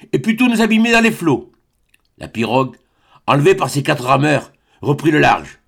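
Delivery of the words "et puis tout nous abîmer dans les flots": desperate cry. A narrator's reading. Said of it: "s'écria-t-il".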